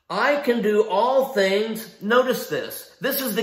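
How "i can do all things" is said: slow, weighty "all things"; stress on "all things". Shown as a demonstration. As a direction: draw out "all things" with emphasis. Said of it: "We focus and we emphasize "all things".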